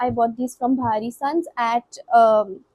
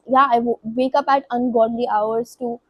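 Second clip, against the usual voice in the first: stumbling, stuttering over words; real stutter, tripping on words. Real, not acted. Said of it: "you get why I'm stuttering so much".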